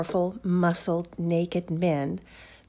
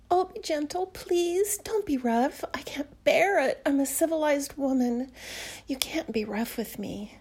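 pleading; 5 semitones higher than usual. Acted. Pleading for gentleness.

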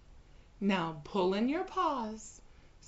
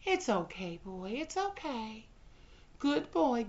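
higher, fast cooing reassurance; mock soothing; 5 semitones higher, 4 dB louder than usual. Bride soothing her caged pet, mock cooing. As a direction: coo to calm a whining dog.

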